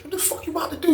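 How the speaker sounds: hissed high whisper; urgent whisper. Retold or imitated. Confronting his cellmate in secret, urgent whisper. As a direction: whisper it sharp so nobody hears. Whispering so guards won't hear.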